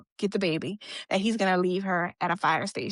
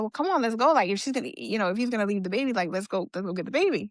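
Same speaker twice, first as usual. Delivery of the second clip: urging; faster than usual. Retold or imitated. Friend urging her to fetch the baby, lightly insistent. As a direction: urge a friend to get moving.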